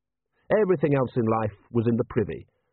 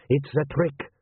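snappish, higher-pitched accusation; 4 semitones higher, slower than usual. A narrator's reading. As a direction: snap it as an indignant prince. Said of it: "snapped the prince".

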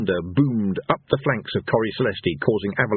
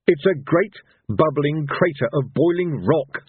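burst out; 6 semitones higher, slower than usual. A narrator's reading. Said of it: "Rincewind burst out".

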